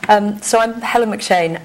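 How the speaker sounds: a little hoarse and croaky; slightly croaky voice. Real, not acted. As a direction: speak through a mild croak in the throat. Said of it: "Excuse the slightly croaky voice".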